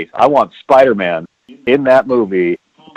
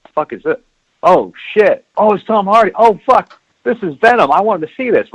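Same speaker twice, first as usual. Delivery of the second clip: excited moviegoer; 7 semitones higher than usual. Retold or imitated. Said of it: "there's people like".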